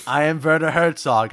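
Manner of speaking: lightly voiced German film director; a hint of German documentary narrator; Werner Herzog. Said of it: "both of these are horrible".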